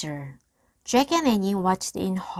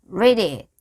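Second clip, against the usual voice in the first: growled; 8 dB louder than usual. A narrator's reading. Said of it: "he growled".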